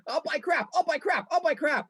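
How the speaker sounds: very high, sing-song chant; man doing a woman's voice. Retold or imitated. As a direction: chant it in a squeaky mimic voice. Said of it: "does an impression of my wife".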